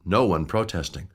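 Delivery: usual speaking voice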